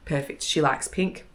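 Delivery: talking through the hiccups; interrupted by little hiccups. Real, not acted. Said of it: "I've got the hiccups a little bit".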